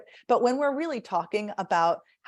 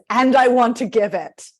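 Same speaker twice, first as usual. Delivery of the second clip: warm; 4 semitones higher, 9 dB louder than usual. Shown as a demonstration. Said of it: "And the warmth is".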